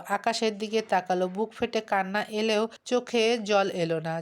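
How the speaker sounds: ordinary delivery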